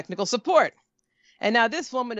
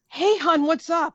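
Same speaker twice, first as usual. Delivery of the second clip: high, raised-voice imitation of a greeter; chirpy store greeter; 8 semitones higher, 4 dB louder, slower than usual. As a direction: sing out a breezy retold hello. Acting the Apple guy's greeting.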